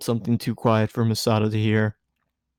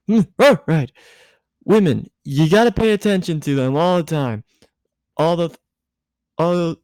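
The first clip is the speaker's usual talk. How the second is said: high, giddy tipsy woman, voice pitched up; tipsy Misato; 6 semitones higher than usual. A narrator's reading. Tipsy Misato lecturing Shinji, high and giddy.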